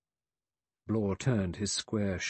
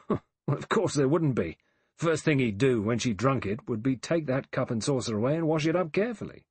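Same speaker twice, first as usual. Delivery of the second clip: a blunt man, a touch higher, quicker at the end; lightly voiced blunt man; 3 semitones higher than usual. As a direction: brush the doubt aside, matter-of-fact.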